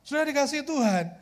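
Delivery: normal talking voice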